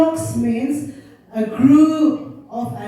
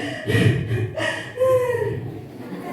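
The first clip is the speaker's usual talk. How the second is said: high, soft fake sobbing; imitated crying of the shepherd boy; mock weeping; 10 semitones higher, 5 dB quieter than usual. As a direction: pretend sobs, breathy and voiceless. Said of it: "sitting on the road and weeping".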